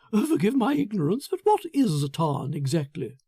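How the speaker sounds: high, bright, self-satisfied chatter; a gushing, smug man showing off his prize; the narrator voices Foster pleased with himself; Foster, eager and pleased. Acted.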